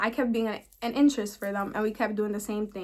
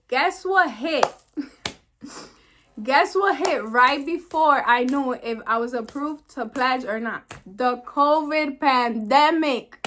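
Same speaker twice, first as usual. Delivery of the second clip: dramatic reveal; 3 semitones higher, 4 dB louder, slower than usual. Real, not acted.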